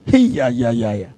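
low wail falling away; mock crying on repeated syllables; imitated crying. Classmate overcome before his old friend, imitated crying. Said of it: "He was crying".

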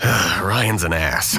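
heavy sigh, then drawn-out disdain; exasperated. Acted. Patient tells doctor about cousin, exasperated. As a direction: say it slowly with a weary sigh.

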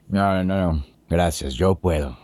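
talking with a mouthful; words round a bite of food; mouth full. Real, not acted. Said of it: "le contestas hablando con la boca llena de comida".

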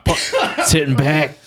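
Gilbert Gottfried voice. Acted. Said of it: "In a, in a Gilbert Gottfried".

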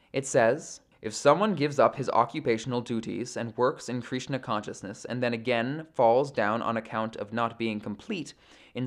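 measured, formal read-aloud of sacred text; composed audiobook-style recitation; scripture reading. Acted. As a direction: read the commentary out evenly, phrase by phrase. Reads scripture and purport aloud.

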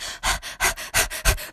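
mock panting sound; heavy breathing. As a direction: puff out breathy huffs like someone out of breath. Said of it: "I realized that I breathe a lot".

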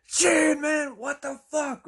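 high mock shout, drawn out; astonished reaction. Truck driver reacts to blown-out windows, imitated in high astonishment. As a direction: exclaim it in stunned disbelief. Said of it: "The truck driver is then like".

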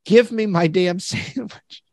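slow, laughing demand for the sandwich; mock angry demand. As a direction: drag it out, cracking up mid-line. Retold rant at Wendy's worker.

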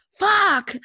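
high, loud shocked outburst; full-voiced reenacted yell; retold yell. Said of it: "So I've yelled out".

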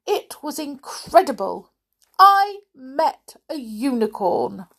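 high, breathless excited gush; Little Miss Chatterbox, very excited. Acted. Chatterbox telling her friend of an amazing sight, very excited. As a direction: pile it on, bursting to reach the big news. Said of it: "a very excited little Miss Chatterbox".

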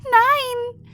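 very high, loud crying no; tearful scream. Acted. Ninvini screams as her tentacles are attacked, loud crying scream. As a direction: scream it through tears. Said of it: "brüllte Ninvini unter Tränen".

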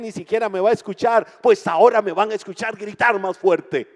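loud, high defiant shout. Acted. Bartimeo defying the crowd that hushes him, a loud high shout. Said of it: "él gritó aún más fuerte".

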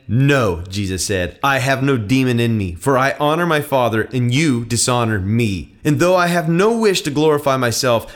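firm, emphatic Bible narration with voiced dialogue; dramatic scripture reading. A narrator's reading. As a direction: read the gospel aloud with conviction.

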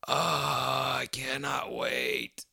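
slow, breathless whisper of anticipation; excited whisper. Real, not acted. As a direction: hush it like a secret thrill. Excited about John Wick three.

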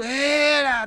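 high crowd cheer. Retold or imitated. (torcida vibrando)

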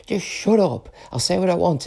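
high-pitched irritated retort; exasperated. Real, not acted. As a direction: tell off your critics, fed up. Snapping at imagined critics.

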